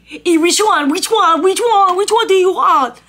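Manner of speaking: loud, high, impatient repeated question; impatient barking. Retold or imitated. Barista barking which one at the customer, impatient and loud. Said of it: "he's like".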